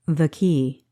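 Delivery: a hint of a gentle, comforting king; melodic and warm. A narrator's reading. Mist king points at Kessa, a touch warm and melodic. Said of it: "His voice was melodic and warm".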